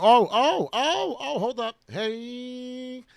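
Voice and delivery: high, loud sudden oh oh oh; excited. Real, not acted. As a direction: shout as the price jumps. Sudden chart spike excitement.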